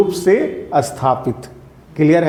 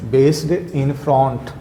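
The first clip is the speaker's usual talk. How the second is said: slow dictation; 2 semitones lower, 4 dB quieter, much slower than usual. Shown as a demonstration. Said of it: "B A A C D".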